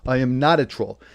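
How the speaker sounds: ordinary talk, nothing marked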